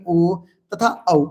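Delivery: ओ तथा औ धीरे खींचकर; धीमे से गिनाना; धीमा उच्चारण. Shown as a demonstration. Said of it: "जेना कि अ देखियो". (धीरे बोले स्वर)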